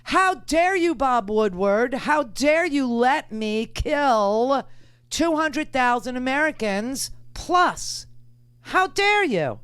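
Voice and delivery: a hammed-up "how dare you" thrown at the reporter; mock indignant Trump. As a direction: play Trump berating Woodward in mock fury. Host voices Trump scolding Woodward.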